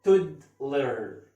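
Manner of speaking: تودلر drawn out slowly, syllable by syllable; slow syllable demo. Shown as a demonstration. Teacher slowly breaking down تودلر for students. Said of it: "اول حاجه نشوف دي تو".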